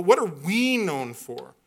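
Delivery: "we" stretched and leaned on as the contrast; stress on WE. Real, not acted. Preacher turns from individuals to the whole church, stress on "we". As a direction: put the weight of the question on "we". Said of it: "never mind you personally, but".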